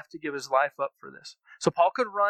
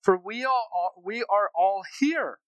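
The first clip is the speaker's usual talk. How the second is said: louder call, rising high on for we all; loud cry; 3 semitones higher, 4 dB louder than usual. Acted. Paul shouting to the jailer about to kill himself, louder. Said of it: "Paul cried out in a loud voice".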